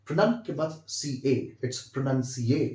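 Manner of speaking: slow spelling out of Pronun, सी, ए; teacher sounding out the word; syllable by syllable. Shown as a demonstration. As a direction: build pronunciate slowly piece by piece. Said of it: "अच्छे से pronounce करें".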